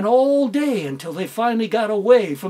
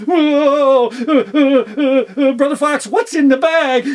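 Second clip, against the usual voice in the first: loud, higher panicky cry; frightened yelp; 4 semitones higher, 7 dB louder than usual. Acted. Fox scared by the roar, loud and panicked.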